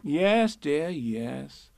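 motherly "there, there" tone; soothing. A narrator's reading. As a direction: humour them gently. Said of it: "said Kanga soothingly".

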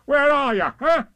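loud, high searching call. A narrator's reading. Tigger calls for his hidden friends, loud high shout. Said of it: "called Tigger".

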